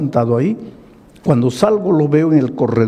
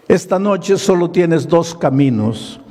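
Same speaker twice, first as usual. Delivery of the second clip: rising preaching; 8 semitones higher than usual. Acted. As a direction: swell up like a preacher at the pulpit. Quoting his own sermon.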